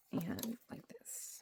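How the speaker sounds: slow whispered aside. Real, not acted. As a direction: breathe it out slowly.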